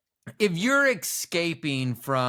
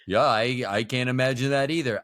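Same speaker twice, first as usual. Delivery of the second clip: attempted Egyptian accent; 4 semitones lower than usual. Host voices an imagined Egyptian soldier in a weak Egyptian accent. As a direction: try for an Egyptian accent and land somewhere near Brooklyn. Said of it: "imagine this as an Egyptian accent".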